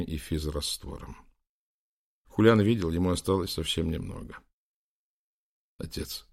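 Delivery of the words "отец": soft, hushed address; whispered. A narrator's reading. Prince to his dying father at the bedside, whispered. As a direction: say it under your breath. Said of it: "прошептал он".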